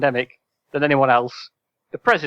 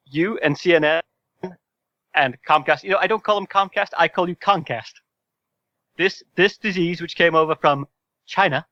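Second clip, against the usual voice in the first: a hint of Trump's blustering cadence; mild Trump imitation on request; Donald Trump impression; 3 semitones higher than usual. Shown as a demonstration. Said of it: "I'd like you to attempt to do it again now".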